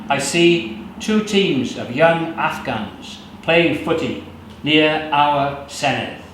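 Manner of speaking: measured, unhurried poetry recital; poem reading. Acted. Poet reading his own poem to the audience, measured. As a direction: let each image land slowly.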